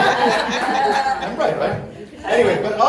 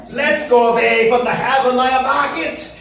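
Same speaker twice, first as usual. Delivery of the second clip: put-on Yiddish accent; 5 semitones higher, 3 dB louder than usual. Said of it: "I'm not doing his accent justice".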